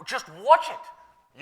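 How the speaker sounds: slow, high, drawn-out warning; stern retold warning. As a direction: stretch each word as a caution. Retelling the apostle's warning.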